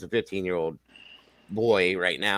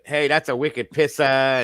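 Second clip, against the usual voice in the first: lightly mimicked New England accent, slowed down; slow imitation of New England slang and accent; imitated New England accent; 2 semitones higher, slower than usual. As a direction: put on a bit of New England, "pissa" with no R. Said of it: "I waited to hear a few of the".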